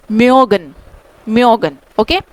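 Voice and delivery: म्योगन said with a rounded ö; German word mögen. Shown as a demonstration. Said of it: "इसको हम बोलेंगे". (German "म्योगन" ö ध्वनि के साथ)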